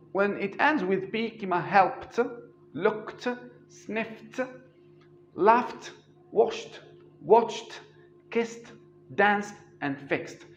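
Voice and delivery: helped, looked, laughed, each ending on a crisp t sound. Shown as a demonstration. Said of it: "نطقناها ت".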